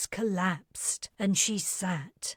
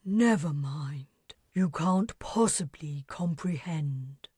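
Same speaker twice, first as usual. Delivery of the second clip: lower, gentler resignation; softening tone; 3 semitones lower than usual. Acted. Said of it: "Her tone softening".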